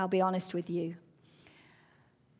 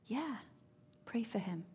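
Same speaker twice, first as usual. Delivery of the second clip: soft, hushed, much softer; very quiet voice; 13 dB quieter than usual. Retold or imitated. God gently repeating the command in a very quiet voice. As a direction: calmly repeat it under the breath. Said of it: "in a very quiet voice".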